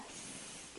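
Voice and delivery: short hissing snake sound. Shown as a demonstration. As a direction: hiss like a snake. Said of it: "you'll need to make a snake sound".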